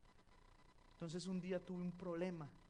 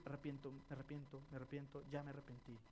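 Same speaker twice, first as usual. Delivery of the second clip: mock glib repentance; 3 semitones lower, 5 dB quieter, faster than usual. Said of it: "Yo no puedo decir".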